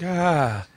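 "ah" held as an open, drawn-out vowel; Boston "ah" ending. Shown as a demonstration. Explaining how the accent ends, open "ah". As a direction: stretch "ah" wide and open. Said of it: "It ends with a ah".

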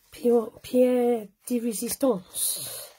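slow, drawn-out mock French accent. Crafter teasing viewers about the grand finale, in a slow mock French accent. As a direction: savour the words in a hammed-up French accent. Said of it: "she says in her best French accent".

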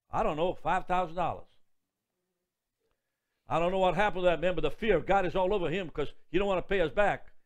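normal talking voice

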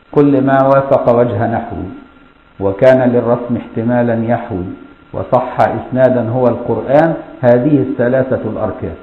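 slow, measured chant of verse lines; slow scholarly recitation of a verse; poem recitation. Shown as a demonstration. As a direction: recite the poem slowly, line by line.

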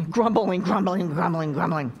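low, repetitive mock grumble; mock grumbling. Preacher imitating grumblers in his congregation, mock grumbling. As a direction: grumble the word over and over, pitch sinking. Mimics people grumbling to themselves.

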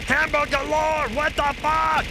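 high, loud stunned cry; gobsmacked. Real, not acted. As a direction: blurt it out, totally floored. Surprise at a viewer's gift.

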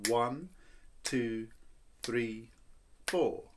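even count of four on the beat. Shown as a demonstration. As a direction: count one, two, three, four steadily. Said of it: "I'll give you four".

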